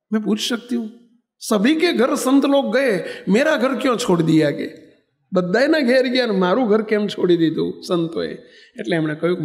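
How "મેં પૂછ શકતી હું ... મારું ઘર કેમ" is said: higher-pitched imitation of a questioning old woman; storyteller voicing an aggrieved elder; old woman's complaint. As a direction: plead to know why, voice lifted.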